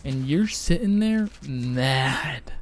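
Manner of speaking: blunt in mouth. Real, not acted. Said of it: "I got a blunt in my mouth".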